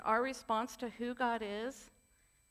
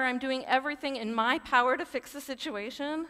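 pleading louder and louder; desperate plea; 2 semitones lower, 3 dB louder than usual. Retold or imitated. A believer crying out to Jesus in a storm, pleading loud. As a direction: cry out to Jesus, building to near shouting.

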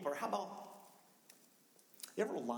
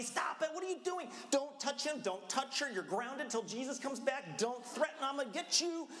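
high, loud scolding shout; yelling at kids; 11 semitones higher, 3 dB louder than usual. Retold or imitated. Parent yelling at kids on the way to church, loud scolding. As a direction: bark orders at squabbling kids.

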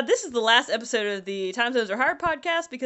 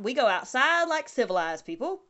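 put-on English accent. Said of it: "civilized is a fun word to say in an English accent".

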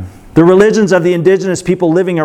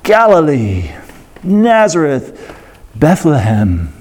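shiny reverent tone; 2 semitones lower, slower than usual. Retold or imitated. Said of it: "like, shiny tones to it".

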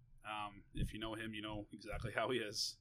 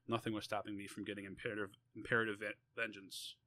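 measured, deliberate read-aloud; story reading. A narrator's reading. Author reading an essay about defending a brother, measured narration. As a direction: read it out in phrases with pauses.

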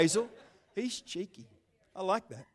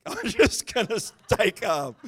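laughing calm; 2 semitones higher, 3 dB louder, slower than usual. Real, not acted. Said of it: "one day I'll break loose and start preaching".

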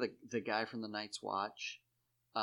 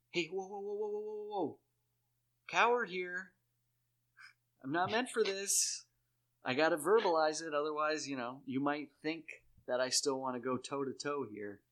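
higher, flustered pleading that settles down; mock coward; 5 semitones higher than usual. A coward begging out of a fight, higher and flustered. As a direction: back away from a fight, hammed up.

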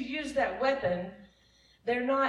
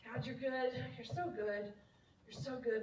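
much softer, intimate prayer; heartfelt quiet praise; 10 dB quieter than usual. Shown as a demonstration. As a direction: say it softly, straight to God. Shows heartfelt praise, choked up remembering.

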